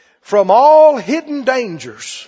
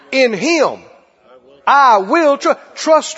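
confident declaration. Acted. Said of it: "What should you say?".

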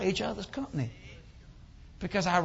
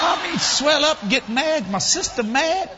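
loud, higher, emphatic storytelling; worked-up retelling; 8 semitones higher, 8 dB louder than usual. Retold or imitated. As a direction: belt out the sister's fury. Describes sister swelling up with anger.

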